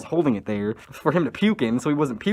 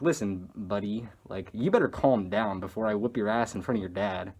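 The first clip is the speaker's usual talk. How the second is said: low, restrained threat; controlled, lower-pitched talking-to; retold warning; 4 semitones lower, 4 dB quieter than usual.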